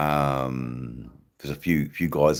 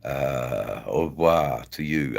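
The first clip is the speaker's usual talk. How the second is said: mock French. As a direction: toss off the French like a cheeky Parisian. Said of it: "uh, that language".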